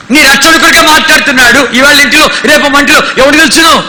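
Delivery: fervent preacher building to a cry; preaching. Acted. Preacher urging the congregation, fervent preaching. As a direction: preach it with rising urgency.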